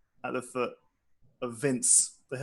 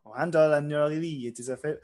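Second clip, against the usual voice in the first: polite, lightly faked French accent; Francois. Wizard meeting two new people, polite mock-French accent. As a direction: begin a courteous greeting, hint of French accent. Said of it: "This is a Francois accent".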